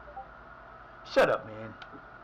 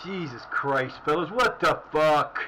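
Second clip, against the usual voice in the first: slow, loud, drawn-out disbelief; exasperated outburst; 5 dB louder, slower than usual. Real, not acted. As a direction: drag every word out at the team in exasperation. Angry at teammates during match.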